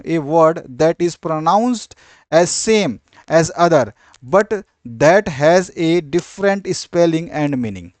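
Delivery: very slow, spaced dictation read; teacher dictating a definition slowly. Shown as a demonstration. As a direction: read it out word by word for notes.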